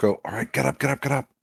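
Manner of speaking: hurried, urgent half-whisper. A character urges someone to get up as footsteps get louder, half-whispering. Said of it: "she's gonna whisper".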